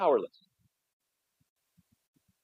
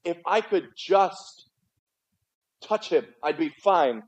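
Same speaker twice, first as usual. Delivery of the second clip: slow hopeful plea; 2 semitones higher, slower than usual. Retold or imitated.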